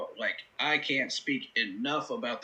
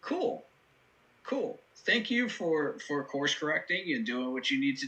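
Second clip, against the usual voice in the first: mock relieved approval; 2 semitones higher than usual. Host voicing his reaction to the coach fixing clock management, mock relieved. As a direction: act out a half-sarcastic sigh of approval. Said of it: "I was like".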